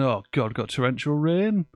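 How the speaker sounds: put-on colleagues' quote slipped into a light Yorkshire accent; a hint of Yorkshire, grumbling about the rain. Host imitates southern colleagues' rain complaint, mild Yorkshire accent. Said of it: "they got a Yorkshire accent".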